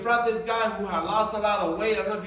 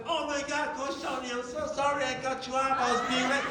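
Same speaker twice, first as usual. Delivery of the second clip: lightly voiced, higher-pitched apology; apologetic teammate; 5 semitones higher, 3 dB quieter than usual. Late teammate apologizing to the coach, imitated lightly. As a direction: gush a sorry in a slightly raised voice.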